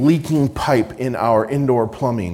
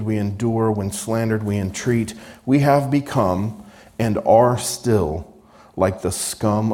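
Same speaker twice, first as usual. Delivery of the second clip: scripture reading. Acted. Preacher reading Paul's letter to the church, earnest proclamation. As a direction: proclaim the apostle's words to the congregation.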